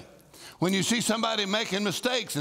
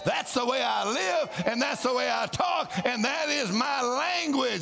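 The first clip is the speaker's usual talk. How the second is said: bold declaration; 5 semitones higher than usual. Shown as a demonstration. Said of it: "once you get the whine out of your voice".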